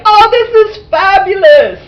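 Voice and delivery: high, loud put-on squeal of delight; gushing delight. Voices the delighted floating head.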